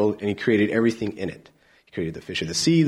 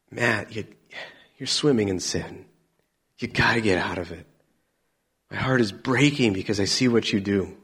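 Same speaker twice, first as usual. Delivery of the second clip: gentle God. Acted. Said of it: "Our God says".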